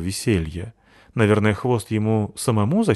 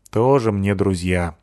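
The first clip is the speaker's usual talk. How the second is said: reproachful. Acted. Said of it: "укоризненно покачал головой".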